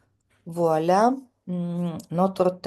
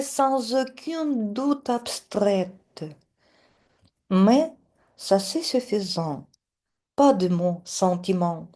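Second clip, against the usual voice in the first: teacher reads the verses clearly for pupils to repeat; model poem reading; 2 semitones higher than usual. Shown as a demonstration. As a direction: recite slowly and clearly so the class can copy. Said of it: "vous écoutez et vous répétez". (lecture modèle d'un poème pour la classe)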